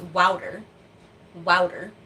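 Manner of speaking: wouter with an OW vowel, WOW-ter; the second way she learned it, WOW-ter; wouter like the South. Shown as a demonstration. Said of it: "second pronunciation I picked up".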